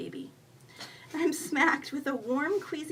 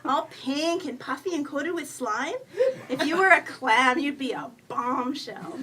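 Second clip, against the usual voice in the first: high, drawn-out raccoon teasing; cheeky raccoon; 3 semitones higher, 5 dB louder than usual. A narrator's reading. Imaginary raccoon admires the snotty woman in the tub, cheeky. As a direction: gush in a higher critter voice, leaning on the punches.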